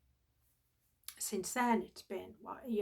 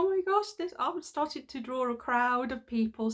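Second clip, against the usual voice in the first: alarmed; 3 semitones higher, 5 dB louder than usual. Retold or imitated. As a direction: panic as the crowd turns to stare. Realising she draws a crowd.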